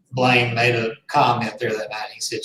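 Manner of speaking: ordinary talk, nothing marked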